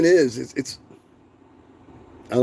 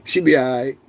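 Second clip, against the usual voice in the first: laughing mock; 3 semitones higher than usual. Real, not acted.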